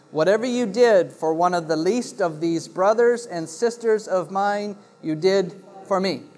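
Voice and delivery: measured read-aloud, phrase by phrase; formal Bible reading to a congregation; Scripture reading. Acted. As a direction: read the parable aloud with even, deliberate cadence. Reads the parable aloud from Scripture.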